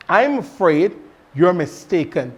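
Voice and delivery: polite and tactful. Shown as a demonstration. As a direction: correct them gently. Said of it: "Instead, you can say something like".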